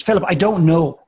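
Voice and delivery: frustrated. Retold or imitated. Woman retold snapping at her coach after repeated questions, frustrated. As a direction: act out a client losing patience. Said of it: "it gets very frustrating after a while".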